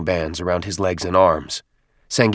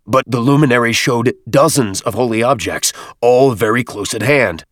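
higher, louder angry reproach; 4 semitones higher, 5 dB louder than usual. Acted. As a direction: scold him, exasperated. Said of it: "couldn't help an angry huff".

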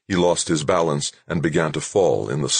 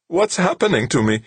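put-on frightened little boy voice, higher; small scared voice, much higher; high and weak; 12 semitones higher, 3 dB louder than usual. A narrator's reading. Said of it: "shocked at how high and weak his voice sounded".

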